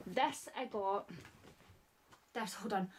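breathless, puffing between words; out of breath. Real, not acted. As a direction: talk while catching your breath. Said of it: "Out of breath again".

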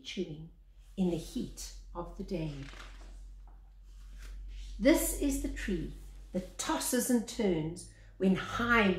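measured picture-book reading, lingering on each line; story narration. Acted. Reading the baobab picture book aloud to children, storyteller voice. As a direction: read it like a gentle bedtime tale.

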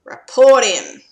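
loud, urgent command; loud call. Real, not acted. Urging player choice loudly.

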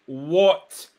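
ordinary delivery

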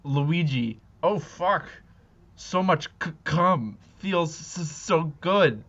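broken, breathless moaning words; panting. Acted. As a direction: pant between the broken words. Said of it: "Mario moaned, panting heavily".

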